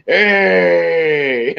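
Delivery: laughing mock hey; mock crowd cheer. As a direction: cheer like a rowdy audience.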